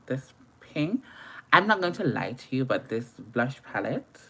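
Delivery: usual speaking voice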